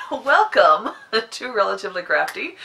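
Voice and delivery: laughing through a light pirate greeting; a hint of pirate, giggling. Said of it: "I don't normally start off by talking like a pirate".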